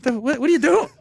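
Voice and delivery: stammering mock indignation, pitched high; imitated insulted sputter; offended, disgusted. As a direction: act out appalled disbelief, tripping over the question. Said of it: "offended and disgusted and just disrespected".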